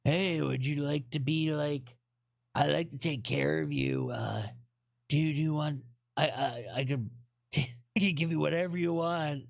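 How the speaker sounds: half-hearted imitation of a creepy old man's come-on. Viewer messages as a mild mock creepy old man. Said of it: "they message you being like".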